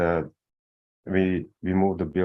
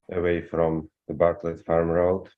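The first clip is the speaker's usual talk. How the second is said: muffled, like through cloth. Real, not acted. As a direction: voice muffled on the mic. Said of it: "You're a little muffled".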